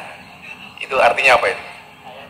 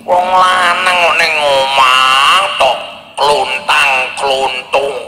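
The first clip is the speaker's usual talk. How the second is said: mocking lazy man; much slower than usual. Mocking idle man at home.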